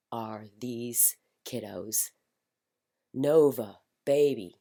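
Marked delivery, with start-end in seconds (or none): 0.1-2.1 slow, fond whisper. Real, not acted. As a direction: breathe it out tenderly. Fond aside about the kids.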